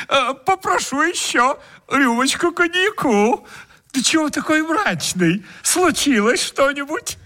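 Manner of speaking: high, smug guest voice; greedy guest voice. Acted.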